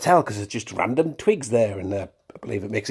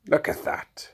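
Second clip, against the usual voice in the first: hushed awe; 4 dB quieter, slower than usual. Shown as a demonstration. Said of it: "I mean, look at that".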